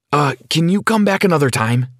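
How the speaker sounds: mildly pressing, trying to get rid of someone; urgent. Acted. Brad tries to send Sarah away, mildly urgent. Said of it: "I asked urgently".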